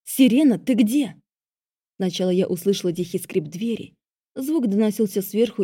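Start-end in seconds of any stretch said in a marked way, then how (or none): 0.0-1.2 loud call down the house. A narrator's reading. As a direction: call her name loudly. Calling stepmother loudly.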